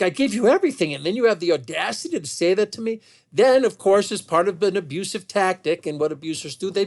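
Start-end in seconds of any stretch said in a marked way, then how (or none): 0.0-3.0 retold indignation, higher at the start; livid. Husband answers wife's insult, retold as livid. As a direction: imitate an affronted, livid comeback, mildly heated. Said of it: "he's livid. He's like".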